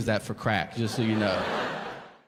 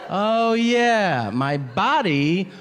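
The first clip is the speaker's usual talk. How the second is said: high self-mocking voice; 6 semitones higher, slower than usual. Self-scolding inner voice.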